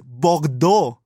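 "Bordeaux" with a French uvular r, pbɑɡdo. Shown as a demonstration. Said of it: "Good Lord".

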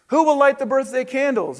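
high, lilting mother's question; lightly voiced mother, pitched well up; storybook mother. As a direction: ask the party like a storybook mum. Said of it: "his mother asked".

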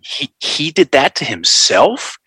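hesitant, slow rise on "did"; slow questioning "He, he did that to himself"; lilting up as if asking; reframed sentence. Retold or imitated. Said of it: "Take out me and put in himself".

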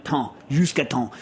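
"temps" as nasal French "tahn"; "jusqu'à temps" ending in a nasal vowel; corrected French. Shown as a demonstration. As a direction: say "temps" with silent m, p and s. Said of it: "temps, not temp".

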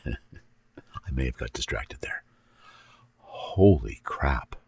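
slow, hushed stoned giggle. Real, not acted. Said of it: "really stoned right now".

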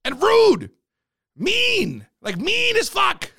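high, punched-out words of disgust; indignant rant. Real, not acted. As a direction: complain high and drawn out, word by word. Ranting about rude government workers.

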